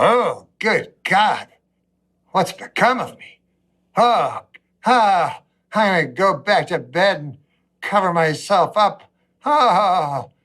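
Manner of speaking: slow, whiny mock lament with sobs; mock despair. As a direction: moan it like a hammed-up breakdown. Despairing quote at the mirror.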